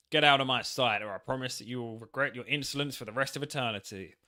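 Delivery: loud opening, settling into a threat; hammed-up villain's warning; acted angry dismissal. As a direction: play a wrathful ghost sending someone away. Voicing Necrovarus dismissing the player.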